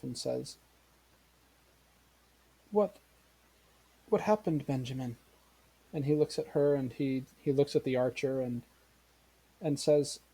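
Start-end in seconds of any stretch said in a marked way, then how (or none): 2.7-5.2 mildly stunned, stammered question; disbelieving mother. Acted. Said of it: "almost as if in disbelief".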